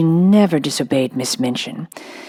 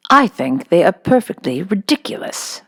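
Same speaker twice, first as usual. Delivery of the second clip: sharp; 3 semitones higher than usual. Acted. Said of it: "replied Miss Minchin sharply".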